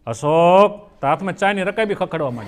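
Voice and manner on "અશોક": lower, questioning call with a rising end; wife after two years, a bit impatient; changed tone. Acted. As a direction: call the name with the shine worn off. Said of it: "એનો tone બદલાય".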